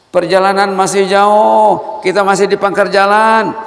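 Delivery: high, loud rebuking questions; impassioned preaching. Acted. Preacher rebuking the congregation, loud and high. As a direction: scold the congregation from the pulpit.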